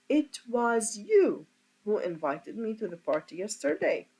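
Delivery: "you" leaned on a little; teacher marks "you" as the focus; stress on you. Shown as a demonstration. Teacher showing students the focus on "you". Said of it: "emphasize the part of you".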